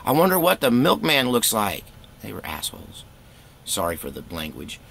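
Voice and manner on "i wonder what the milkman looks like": teasing taunt. Retold or imitated. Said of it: "ballsy guys would even look at us and go".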